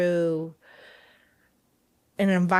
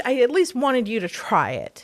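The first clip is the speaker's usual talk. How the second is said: laughing quote; 5 semitones higher, 4 dB louder than usual. Retold or imitated. Laughing retelling to son.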